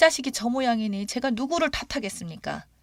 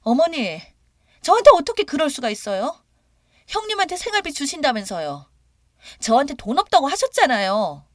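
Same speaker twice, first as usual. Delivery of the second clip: louder, higher mock yell; 7 semitones higher, 4 dB louder than usual. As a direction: yell accusingly at her mother-in-law. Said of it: "소리를 지르면서요". (소리 지르며 따지듯)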